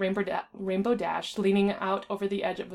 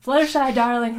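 a higher, louder coaxing call; calling sweetly; 4 semitones higher, 9 dB louder than usual. A narrator's reading. Rarity coaxing Fluttershy down off the ledge, a loud high call. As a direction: call up to coax a shy friend down. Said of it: "Rarity called".

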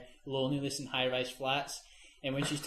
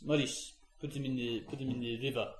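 badly faked Belgian accent; attempted Belgian accent; 2 semitones lower, 3 dB quieter than usual. Serial killer to cameraman Maurice, dodgy Belgian accent. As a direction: have a half-hearted go at a Belgian accent. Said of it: "That's not Belgian".

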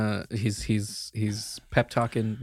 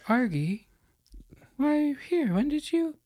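high, startled half-asleep Jacques; Jacques startled at door. Acted. Jacques opens the door to Nick and Gerald, high and startled. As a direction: pitch it up, caught off guard in underwear. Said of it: "be like".

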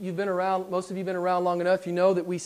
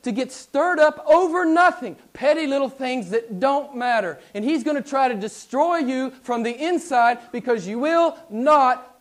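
higher and louder mocking warning, slowing at the end; sarcastic missionary's warning, raised and loud; 6 semitones higher, 6 dB louder than usual. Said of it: "he says, sarcastically".

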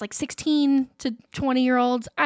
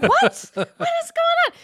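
high-pitched mock alarm; shocked; faster than usual. Rider told they are bleeding, mock shocked. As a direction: yelp it in startled disbelief.

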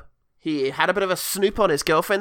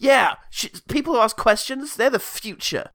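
mock passion; 5 semitones higher than usual. Acted impassioned defence of the child.

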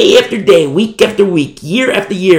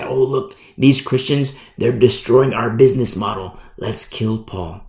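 scheming leaders; 4 semitones lower than usual. Acted. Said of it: "they say".

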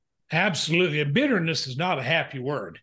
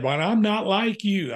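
wife's protest; 6 semitones higher than usual. Retold or imitated. Wife's retold protest voiced.

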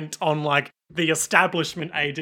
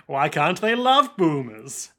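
mock wistful villain; slower than usual.

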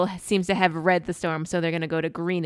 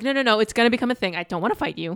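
mock defensive, louder and higher at first; butthurt; 4 semitones higher, 5 dB louder than usual. The speaker shutting Joe down mid-question, mock butthurt. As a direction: cut in quickly, acting offended. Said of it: "he gets so butthurt"

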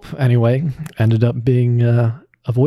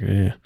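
brief, grating "ugh" at usual pitch; gravelly grating grunt; 4 dB quieter than usual. Shown as a demonstration. Voice actor demonstrating the character's gravel, grating grunt. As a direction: let a small groan grate. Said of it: "that gravel".

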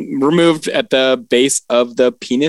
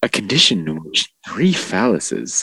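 low, soft news-anchor read; newscaster voice; 10 semitones lower, 4 dB quieter than usual. Pretend. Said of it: "You like the newscaster voice?".

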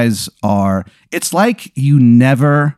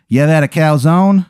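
put-on Italian accent; 6 semitones higher, 3 dB louder than usual. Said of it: "he talks in an Italian accent".

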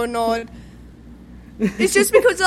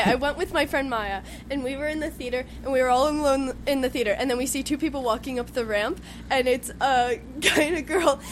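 softer storytelling in a put-on American accent; attempted American accent; 5 dB quieter than usual. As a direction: recount it evenly in an imitated American accent. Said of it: "I'm gonna attempt an American accent".

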